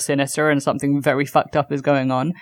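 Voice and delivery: lightly voiced overly kind robot; a hint of a polite robot covering something sinister. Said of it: "this is my kind robot voice".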